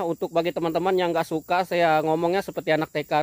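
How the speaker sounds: normal talking voice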